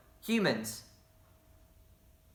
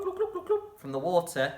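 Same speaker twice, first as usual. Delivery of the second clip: plain. Shown as a demonstration. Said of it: "Not to be confused with your bloop".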